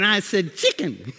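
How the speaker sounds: put-on "chicken" in a playful Mexican accent. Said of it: "talking to me with an accent".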